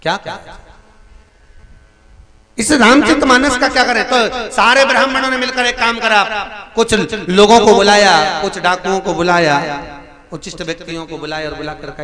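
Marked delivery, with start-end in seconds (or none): 2.6-9.6 high, loud preaching surge; rising declamation. Real, not acted. Preacher building tension for the listeners, loud and high. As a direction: drive the plot forward with force.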